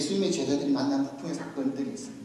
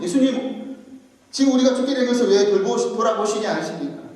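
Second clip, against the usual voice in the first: raised, louder urgent appeal; urgent waking plea; 5 semitones higher, 5 dB louder than usual. Retold or imitated. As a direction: plead as if shaking someone awake. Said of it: "예수님 막 흔들어 깨웁니다". (다급하게 깨우며 호소)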